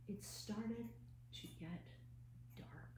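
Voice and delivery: fading to a hush. A narrator's reading. Teacher reading to kids, fading into a spooky hush. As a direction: let it die away into the dark. Spooky turn in bedtime story.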